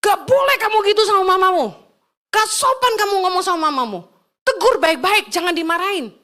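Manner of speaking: mild mock scolding; firmly re-enacted reprimand; retold angry husband. Husband correcting his wife about her mother, mild retold anger. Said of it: "marah dia".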